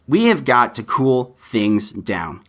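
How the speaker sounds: slowed, deliberate plea; slow and serious, meaning every word; slow earnest plea. Real, not acted. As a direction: lean on each word. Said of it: "I mean it".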